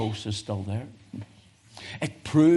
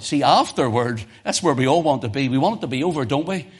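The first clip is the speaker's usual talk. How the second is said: rising preaching fervor; 4 semitones higher, 4 dB louder than usual. Real, not acted. Preacher raising intensity.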